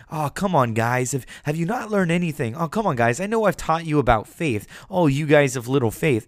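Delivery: lightly acted weary chiding; mild exasperation. Jesus chides the frightened disciples, lightly voiced exasperation. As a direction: scold your students with mock exasperation.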